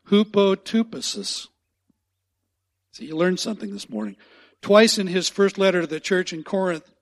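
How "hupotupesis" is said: Hupotupesis said slower as hoo-po-too-peh-sis, ending on a fall; repeat once more. Shown as a demonstration. Pastor has the church say the Greek word one more time, slowly. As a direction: give Hupotupesis one more slow careful pass. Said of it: "One more time".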